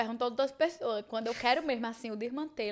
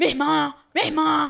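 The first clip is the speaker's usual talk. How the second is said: very loud, high, worked-up indignant outcry; 5 semitones higher, 11 dB louder than usual. Retelling what Gil says when something happens: imitating Gil. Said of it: "Ele fala assim".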